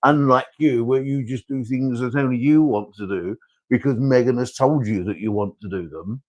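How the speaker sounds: king justifying himself to his son; defensive royal father. Acted. King defending state visit to his son, exasperated. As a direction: explain royal duty, stressing key words.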